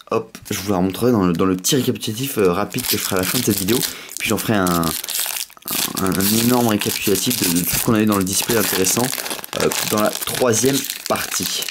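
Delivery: slight lisp, sore tongue; lisping from a bitten tongue. Real, not acted. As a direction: talk around a bitten tongue. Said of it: "je zuzote un peu, je me suis mordu la langue". (zozote, langue mordue)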